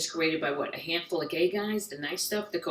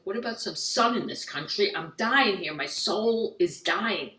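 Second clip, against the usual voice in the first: exasperated plea. Acted. Exasperated retort to English advice.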